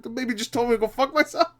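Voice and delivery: high-pitched, incredulous stoner impression; Seth Rogen. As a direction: imitate a baffled man who's high. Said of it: "one of my favorite Seth Rogen scenes".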